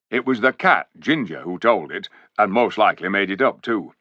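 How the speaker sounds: a hint of a gruff loyal dwarf, brisk; lightly voiced dwarf; dwarf storyteller. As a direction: tell the king the bad news as a plain-spoken dwarf. Dwarf Poggin tells the news.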